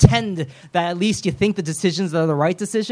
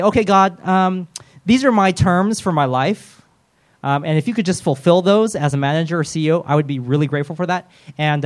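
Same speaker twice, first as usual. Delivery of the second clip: negotiating prayer. Retold or imitated. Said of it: "I say".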